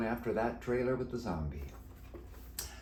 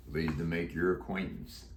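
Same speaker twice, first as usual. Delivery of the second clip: deep croaky voice; 3 semitones lower than usual. Acted. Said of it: "He answered in a deep, croaky voice".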